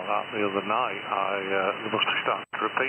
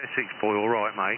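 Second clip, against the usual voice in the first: mock Essex accent. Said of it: "Essex-type London accent".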